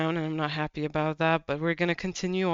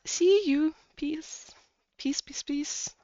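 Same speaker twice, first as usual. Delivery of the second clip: playful whisper sign-off; 10 semitones higher, slower than usual. Acted. Tarot reader signing off playfully.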